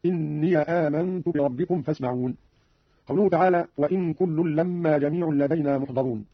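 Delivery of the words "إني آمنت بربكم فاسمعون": إني said "inniya" before آمنت; open yaa in إني. Shown as a demonstration. Teacher gives a second example, إني voiced as "inniya". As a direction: join إني to آمنت with a short a: "inniya aamantu". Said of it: "وكذا قوله تعالى".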